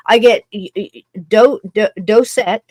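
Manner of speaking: stumbling over a word, restarting it; tongue-tied. Real, not acted. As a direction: grope for a word and trip on it. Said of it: "I'm tongue-tied and crazy".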